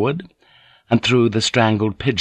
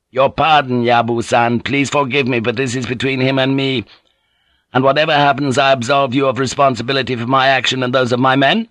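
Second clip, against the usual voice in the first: higher, unyielding character voice; insulted young lord Naga; 4 semitones higher than usual. Acted. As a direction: hold firm over an insult.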